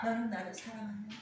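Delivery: quiet second half; subdued answer. Acted. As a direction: let the force drop away completely. Answering half after the proclamation.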